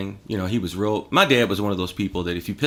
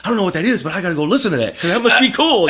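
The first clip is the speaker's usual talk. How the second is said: louder, higher, rising keenness with a laugh; eager kid; 9 semitones higher, 7 dB louder, faster than usual. Retold or imitated. Young bassist hearing a new song, excited. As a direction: gush like a hooked teenager. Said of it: "and I'm like".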